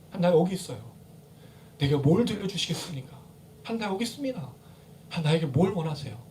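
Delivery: soft, humble acted prayer; hushed willing prayer. Preacher models asking what God wants, hushed. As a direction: ask God gently, holding the volume well down.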